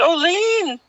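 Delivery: a gentle, puzzled hint of the lady; Indian lady. Lady asking Lynn if she dislikes the beans, puzzled.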